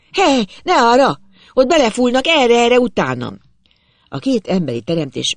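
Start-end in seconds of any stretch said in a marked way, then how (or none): 0.1-3.4 high, loud call to follow; rally them like a bold commander; commanding shout. A narrator's reading. Narrator redirecting two panicked companions, commanding shout. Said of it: "A hadvezér vak bátorságával kiáltottam rájuk".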